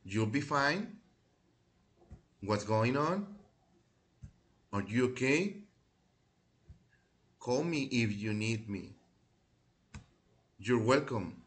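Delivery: model again. Shown as a demonstration. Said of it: "let's repeat again".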